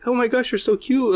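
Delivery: high-pitched mock coo; baby-talking dog admirer. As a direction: imitate a stranger gushing at a puppy. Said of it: "she talks to the dog".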